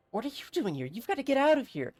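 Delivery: frantic seer warning of fire; frenzied mayor. Acted. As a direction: shriek of doom in a trance. Voicing frenzied mayor Olwen.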